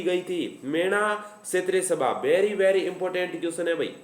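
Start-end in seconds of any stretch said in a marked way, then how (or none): 2.2-3.9 slow emphatic drawl. Shown as a demonstration. Teacher's catchphrase.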